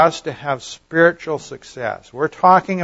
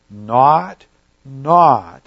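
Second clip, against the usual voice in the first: "not, not" as two separate beats, a pause after each; emphatic double negative. Shown as a demonstration. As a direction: hammer each "not" on its own. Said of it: "it makes it very emphatic".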